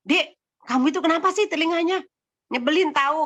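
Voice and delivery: high-pitched mocking older sibling; kakak mengejek. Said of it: "kakaknya yang mengejek gitu kan". (suara tinggi kakak mengejek adiknya)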